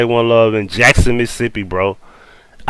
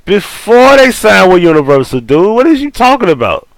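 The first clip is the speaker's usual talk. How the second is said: heated protest; 7 semitones higher, 4 dB louder than usual. Real, not acted. Heated argument about Cash Money.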